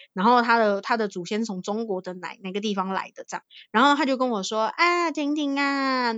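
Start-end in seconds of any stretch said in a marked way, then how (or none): 4.8-6.1 put-on slow, drawn-out Taiwanese-accented greeting; Taiwanese-accented Mandarin. Thai Chinese elder greeting her in a Taiwanese-accented Mandarin. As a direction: stretch her name out like an old Taiwanese-speaking uncle. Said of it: "然后就有那个腔调".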